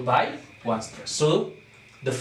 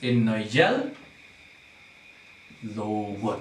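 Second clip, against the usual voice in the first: "in a yell" rising on "yell", long pause, then lower "low wood"; scanned in feet; 4 semitones lower than usual. Shown as a demonstration. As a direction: split "yellow" as "yell, low" across two feet. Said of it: "so this unstressed".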